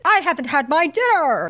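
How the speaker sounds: high, petulant mock protest; indignant refusal. Refuses to flee during bombing.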